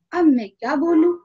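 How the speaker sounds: a hammed-up shocked woodcutter who sees his plan failing; stunned dismay. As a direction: blurt it out, caught off guard and panicking. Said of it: "अब तो सोहन हक्का बक्का".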